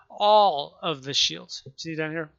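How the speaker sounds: talking through hiccups. Real, not acted. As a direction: hiccup between the words. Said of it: "Excuse me, got the hiccups again".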